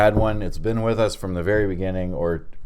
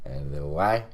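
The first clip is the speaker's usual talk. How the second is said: put-on French accent; French-accented English. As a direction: say it like a mock-French host. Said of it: "End of accent".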